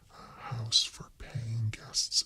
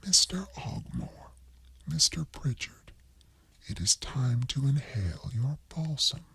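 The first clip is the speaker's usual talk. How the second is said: higher, hushed bossy landlady; a hint of prim scolding wife; lightly voiced stern widow; 5 semitones higher than usual. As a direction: whisper orders to the ghost husbands. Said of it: "nudges in the ribs dead Mister Ogmore".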